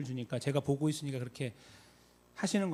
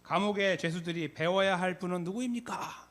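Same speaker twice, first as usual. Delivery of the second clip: raised-pitch imitation of a rousing question; preacher's rally question; 4 semitones higher than usual. Late pastor questioning the gathered youth, rousing question. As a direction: ask it as to a crowd. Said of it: "이렇게 물어봐요".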